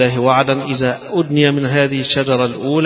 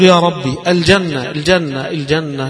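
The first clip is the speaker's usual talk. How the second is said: higher-pitched, eager repeated plea; eager pleading; 4 semitones higher than usual. Acted. Man begging his Lord for Paradise, eager pleading. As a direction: plead excitedly, as if Paradise is within reach.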